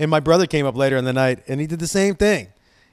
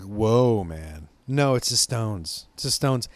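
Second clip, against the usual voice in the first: lightly imitated stoner, lower and slow; Cheech; 5 semitones lower, slower than usual. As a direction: draw it out like a mildly stunned stoner. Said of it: "he sounds just like Cheech".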